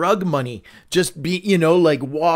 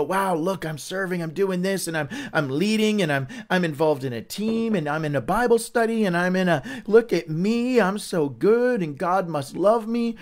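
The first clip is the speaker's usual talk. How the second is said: smug churchgoer; 3 semitones higher than usual. Retold or imitated. Mocking self-righteous churchgoer.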